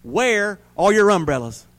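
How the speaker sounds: understated preacher's shout; minister's shout. A narrator's reading. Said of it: "shouted the minister".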